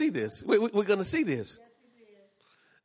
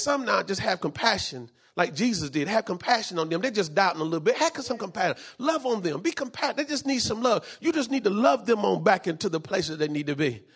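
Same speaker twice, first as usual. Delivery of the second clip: gentle compassion. Retold or imitated. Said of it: "And he says".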